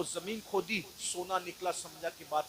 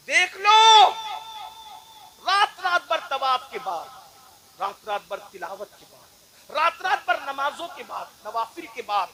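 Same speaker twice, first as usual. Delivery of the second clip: higher and louder with each line, slowing at the end; building sermon cry; 9 semitones higher, 13 dB louder than usual. Acted. Preacher listing nights of worship to the crowd, rising preaching. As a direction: pile it up to a cry.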